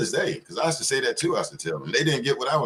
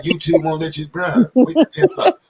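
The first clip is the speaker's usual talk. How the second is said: higher, louder laughing jab at the complainers; mocking yell; 6 semitones higher, 8 dB louder than usual. Mocking complainers, a loud laughing yell to wake up. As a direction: shout them awake with a laugh.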